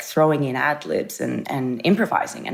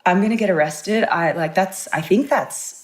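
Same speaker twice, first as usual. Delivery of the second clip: panicked; 5 semitones higher than usual. Retold or imitated. Panicked after slapping Leo.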